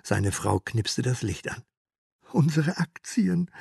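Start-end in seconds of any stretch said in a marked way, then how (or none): 2.3-3.5 slow, breathless whispered dread; stammering whisper. Acted. Herr K. waking in terror, whispering slowly. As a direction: barely get the words out in shock. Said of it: "stotterte Herr K".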